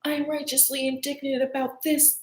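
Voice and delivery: acted-out touchy indignation; mock righteous indignation. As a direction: put on a wounded, indignant act. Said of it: "righteously indignant about things that don't matter".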